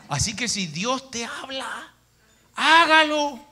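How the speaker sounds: high, loud, slow urging; urgent plea. Retold or imitated. The converted young man urges the pastor, high loud plea. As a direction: press him to obey, rising high.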